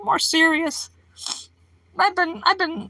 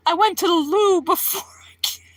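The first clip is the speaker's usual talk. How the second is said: light mock British loo line; playful British accent for chat. Streamer teasing British chat in British accent. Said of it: "I'm not making fun of the accent".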